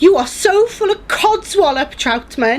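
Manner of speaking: angry outburst. Acted. Beth rounds on the reporter, telling him off loudly. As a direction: tell him off hard.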